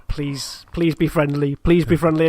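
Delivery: rising nervous plea; anxious pleading. Retold or imitated. Pleading with approaching ship.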